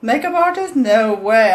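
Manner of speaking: high laughing disbelief; shrieking laugh at herself. Real, not acted.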